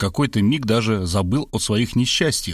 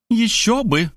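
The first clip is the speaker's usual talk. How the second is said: high, triumphant exclamation; exultant mother's cry; 10 semitones higher, slower than usual. A narrator's reading. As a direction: crow it with raised pitch. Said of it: "торжествуя гаркнула мать".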